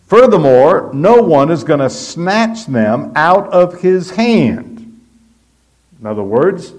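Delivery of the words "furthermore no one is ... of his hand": higher and louder, proclaiming; emphatic quote. Retold or imitated. Preacher quoting Jesus with full force, loud. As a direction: ring it out from the pulpit. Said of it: "he then says".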